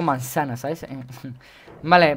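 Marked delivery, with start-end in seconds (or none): 0.0-0.6 "manzana" with an s sound, Latin American accent; Latin American seseo. Shown as a demonstration. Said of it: "porque me gusta el acento".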